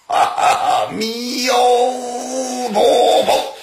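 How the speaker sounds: stagy laugh into a long, high intoned chant; laugh, then stretch the holy name very slowly on a held high note; scornful monk's invocation. Acted. Monk laughs off threat, intones Buddha's name. (大笑后拖长声念佛号)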